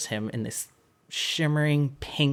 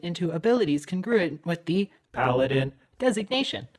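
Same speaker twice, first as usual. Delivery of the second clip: cheerful automated announcer voice, higher; system announcer; 4 semitones higher than usual. Acted. Game master voicing the machine announcer to the players. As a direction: read it like a synthetic PA system.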